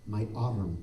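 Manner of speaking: soft imitation Italian accent; halting Italian-accented English, with pauses. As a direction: imitate a hurt Italian speaker, gently. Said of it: "in this Italian accent".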